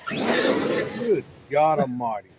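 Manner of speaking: long, drawn-out loud astonishment; amazed exclamation. Real, not acted. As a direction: stretch it out in disbelief. Reacting to the fast lawnmower.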